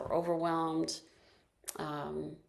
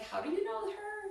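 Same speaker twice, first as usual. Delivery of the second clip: surprised question; 14 semitones higher than usual. Retold or imitated. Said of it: "and I was like".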